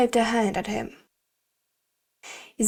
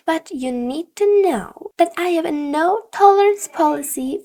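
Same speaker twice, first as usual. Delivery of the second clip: louder, higher stern warning from a teacher; teacher threatening to report a student to the principal; strict teacher warning; 3 semitones higher, 4 dB louder than usual. Acted. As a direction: lay down the law firmly.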